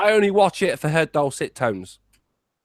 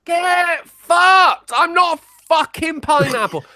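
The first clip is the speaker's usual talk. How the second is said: mock angry shout; 9 semitones higher, slower than usual. Cohost shouting back at being called Lord of Pineapples, mock angry. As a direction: bark it back as a playful insult at the intro.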